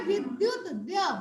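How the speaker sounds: विद्युत with "dy" joined, then द्य alone as "dya"; demonstrated pronunciation. Shown as a demonstration. Teacher showing pupils the half-letter, द्य said "dya". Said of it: "इसे कहेंगे".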